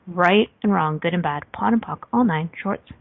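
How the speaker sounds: breathless, gasping between words; out of breath. Real, not acted. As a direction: talk while winded. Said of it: "I'm out of breath".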